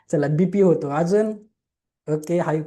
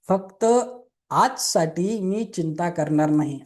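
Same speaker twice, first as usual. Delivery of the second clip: slow dictation; slower than usual. Shown as a demonstration. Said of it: "second प्रिन्सिपल लिहून घ्या".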